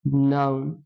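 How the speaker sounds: word-by-word dictation. Shown as a demonstration. Teacher dictating to students, slow and spaced out. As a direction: let them write each word. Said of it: "teacher dictates with long gaps".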